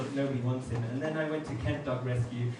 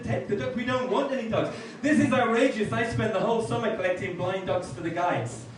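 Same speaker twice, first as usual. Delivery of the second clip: mock outraged guides; 7 semitones higher, 4 dB louder than usual. Girl Guides refuse the blind dogs.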